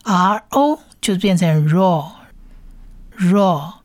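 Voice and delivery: "R", "O", then joined as "raw"; blending sounds. Shown as a demonstration. (拼读示范：“R O”合成“raw”)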